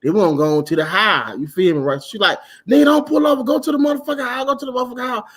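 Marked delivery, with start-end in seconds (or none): 2.7-5.2 higher-pitched mock insistence; retold insistent order. Passenger tells the driver not to stop, insistent. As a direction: act out her pushy demand. Retold car argument over stopping.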